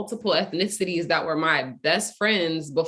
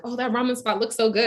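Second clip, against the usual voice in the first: lightly acted friendly stranger, pitched higher; higher-pitched mock small talk; chatty stranger; 5 semitones higher than usual. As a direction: imitate a passerby gushing a little. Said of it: "turned around and was like".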